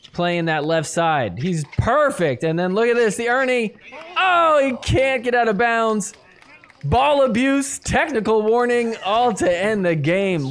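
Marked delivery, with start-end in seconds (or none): 2.4-10.5 high, rising excited commentary; raised, urgent match-call; excited play-by-play. Real, not acted. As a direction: call the shocking game-ender at a high pitch. Calls the dramatic game-ending point.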